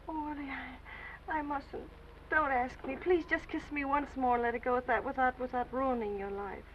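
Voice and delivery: soft, sad and hesitant; sad, tender refusal. Acted. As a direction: refuse him sadly. Tearful refusal.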